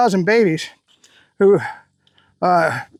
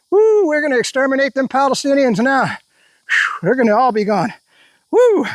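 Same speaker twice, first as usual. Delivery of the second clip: mock cheering; 2 semitones higher than usual. Sarcastic fake cheer.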